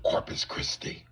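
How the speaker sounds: slow whispered stranger; lizard man voice. Retold or imitated. Reptilian man answers where he's from, whispered. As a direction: breathe the city name eerily. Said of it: "He said".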